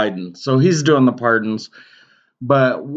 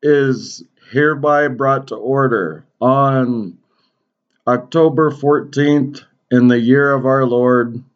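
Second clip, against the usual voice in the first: mock formal proclamation. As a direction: read it like a royal decree. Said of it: "that goofy fucking intro".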